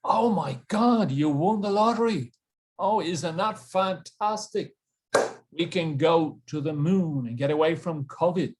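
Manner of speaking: hammed-up thrilled disbelief; acted surprise. Shown as a demonstration. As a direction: demonstrate surprise with exaggerated intonation. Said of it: "So surprise".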